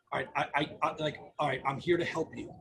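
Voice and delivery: low, calm reassurance; steady the caller with quiet care; empathetic tone. Shown as a demonstration. Telling an injured caller help is here, reassuring. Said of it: "with my tone, my intonation".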